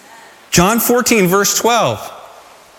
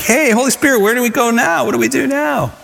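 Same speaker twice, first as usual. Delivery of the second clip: eager asking; 5 semitones higher than usual. Retold or imitated. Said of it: "this attitude of like".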